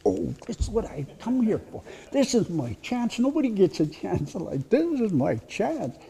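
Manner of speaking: put-on a boy thrilled at his first raid chance; boy's excitement. Boy bursting with excitement at his first raid. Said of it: "And he's all excited".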